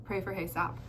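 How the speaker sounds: blocked nose from a cold; stuffy nose. Real, not acted. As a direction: talk through a stuffed-up nose. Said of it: "I'm also very stuffed up".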